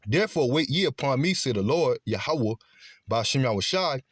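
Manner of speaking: declaimed verse, lifted at the opening; scripture reading. Acted. Preacher reading Zephaniah to listeners, declaimed scripture reading. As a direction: proclaim the verse with swinging emphasis.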